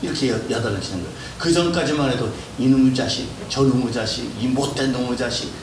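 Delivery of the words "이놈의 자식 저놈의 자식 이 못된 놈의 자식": loud scolding shout; mock scolding. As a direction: bark out the old insults. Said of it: "이렇게 욕하다가". (큰소리로 꾸짖는 욕)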